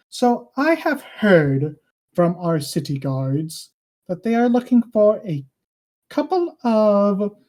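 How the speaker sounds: lightly voiced king, slow and deliberate; measured royal pronouncement with weighty pauses; king addressing the party.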